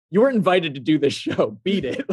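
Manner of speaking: lightly acted irritated rebuff; Millie Bobby Brown. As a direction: shoo off an intruder, playfully annoyed. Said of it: "Millie Bobby Brown's like".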